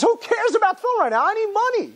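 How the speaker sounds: put-on high, impatient broke young man; fed up, snapping at his father; exasperated son. Broke son to his father, high and exasperated. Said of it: "he says".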